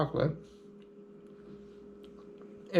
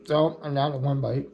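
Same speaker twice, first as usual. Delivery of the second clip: mouth full. Real, not acted. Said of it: "Sorry to speak with my mouth full".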